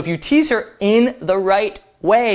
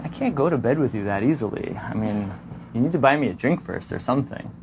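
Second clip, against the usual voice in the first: soft, quick, coy and lower; mock coy; 6 semitones lower, 6 dB quieter, faster than usual. Shown as a demonstration. Twisting her bed remark, soft quick mock coy. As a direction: play hard to get with a smirk. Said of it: "turn that into an invitation".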